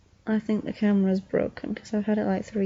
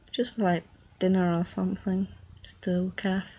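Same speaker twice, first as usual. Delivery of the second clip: whispering; 3 semitones lower than usual. Real, not acted. Sleepy aside, unvoiced.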